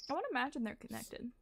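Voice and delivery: talking while eating soup; mouth full. Real, not acted. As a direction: speak around a spoonful of soup. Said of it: "I'm eating soup right now".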